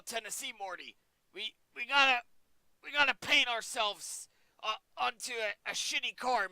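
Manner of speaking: high, throat-straining cartoon impression; hammed-up stuttering rant at a sidekick; Rick Sanchez. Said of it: "kills my throat doing that voice".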